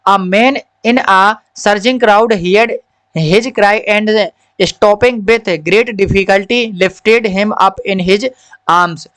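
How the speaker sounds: slow, careful reading-aloud voice; a teacher reads the story line by line to children. Acted. Slow story reading for the class.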